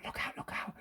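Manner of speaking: full breathy whisper of "look out, look out"; urgent stage whisper. Shown as a demonstration. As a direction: whisper the warning. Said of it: "Is he whispering".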